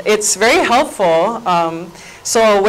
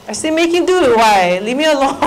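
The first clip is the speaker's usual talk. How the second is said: mock-annoyed, higher-pitched retort; bothered parent; 5 semitones higher, faster than usual. Mother on the toilet answering her kids, playfully annoyed. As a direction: fend off the child, breaking into a laugh at the end.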